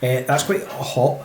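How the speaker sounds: strained from the burning drink; slow, wincing after a hot whiskey; after a shot of liquor. Real, not acted. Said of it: "The back of my throat is on fire".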